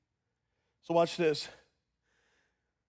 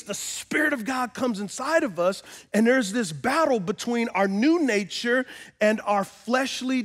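raised-pitch, driving sermon delivery; impassioned preaching; 7 semitones higher, 3 dB louder than usual. Acted. Preacher tells the church about the inner battle, impassioned. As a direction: preach it with rising urgency. Preaches on flesh against Spirit.

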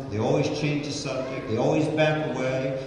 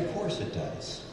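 whispered admission; 4 semitones higher, 10 dB quieter than usual. Real, not acted. Preacher admitting anger to crowd, whispered. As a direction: confess it under your breath. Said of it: "whispered admission".

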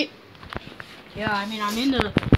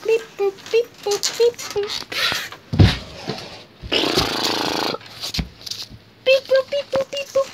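robot beeps; 7 semitones higher, 3 dB quieter than usual. Pretend. Game and Watch final speech.

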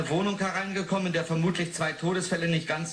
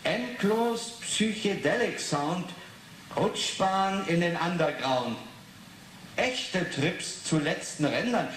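slow, deliberate verse reading; poem reading; slower than usual. Acted. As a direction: spell out each line of the poem. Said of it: "reads poem aloud slowly". (Verse langsam und bedächtig lesen)

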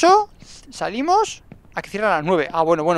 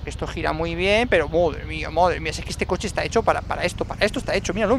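ordinary talk, nothing marked

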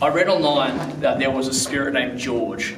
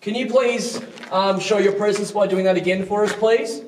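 higher-pitched, polite appeal; polite request; 5 semitones higher than usual. Real, not acted. Investigator asking a spirit to show its presence, polite request. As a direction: ask courteously, lifting each please.

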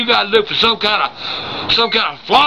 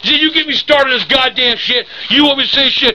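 worked-up, higher-pitched scolding; angry outburst; 4 semitones higher than usual. Pretend. Grandpa losing it at the person filming, angry outburst. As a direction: lose your temper at the helper.

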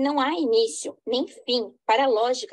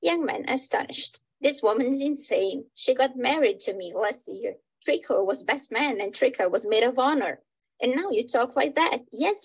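dramatic reading. Acted. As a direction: play reading with lightly voiced characters. Reads English version of play.

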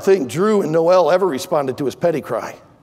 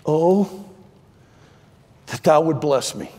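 soft prayer; 4 semitones lower than usual. Retold or imitated. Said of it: "he asks for grace".

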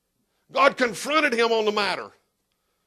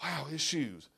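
much lower, softer, slow "Wow"; mock admiring listener; 6 semitones lower, 13 dB quieter, slower than usual. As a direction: gawk at the pastor's shoes. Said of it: "be like".

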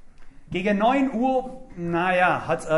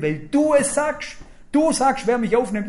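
fervent plea; 5 semitones higher, 5 dB louder than usual. Retold or imitated. Prayer rises to loud plea.

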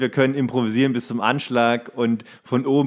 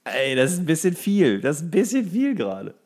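mock overwhelmed thought; 4 semitones higher than usual. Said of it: "Und du denkst".

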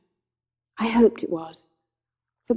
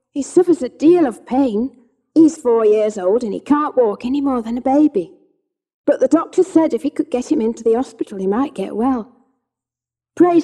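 higher, louder worried pleading; anxious plea; 3 semitones higher, 3 dB louder than usual. Acted. Anxious mother pleads with the cabman, higher and urgent. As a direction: beg the cabman for directions.

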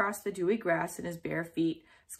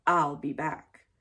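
menacing; 4 semitones lower, slower than usual. Acted. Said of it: "as if to say".

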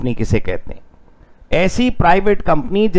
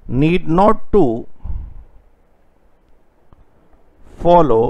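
word by word for writing; slow dictation; much slower than usual. Shown as a demonstration. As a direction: dictate slowly and evenly. Teacher dictating notes.

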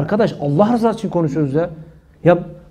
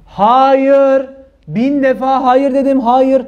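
higher, louder, insistent refusal; emphatic no; 4 semitones higher, 3 dB louder, much slower than usual. Real, not acted. Preacher insists to viewers, a thousand times no. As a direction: hammer every hayır home.

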